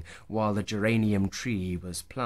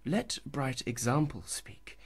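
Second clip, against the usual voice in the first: whispered; 4 semitones higher, 5 dB quieter than usual. Acted. Lover's teasing hushed aside.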